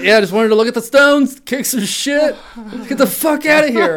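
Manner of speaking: high playful quote voice; lightly voiced silly girl; mock girly voice. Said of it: "You're like".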